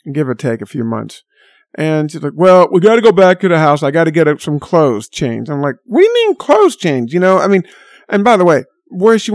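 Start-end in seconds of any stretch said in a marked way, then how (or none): 2.3-5.5 quoting a fussy friend with a hint of whine; friend's voice. Friend voiced in retold story. 5.8-7.1 much higher, disbelieving; high-pitched retold disbelief; incredulous. Own retold disbelieving reply.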